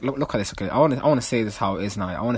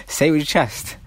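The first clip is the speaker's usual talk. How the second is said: slogan call; 5 semitones higher, 5 dB louder than usual. Acted.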